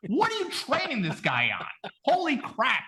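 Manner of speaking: mumbled, marble-mouthed Rocky, lightly done; slurred, a bag of marbles in his mouth; Rocky impression. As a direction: mumble like punch-drunk Rocky. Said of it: "sounded like a bag of marbles".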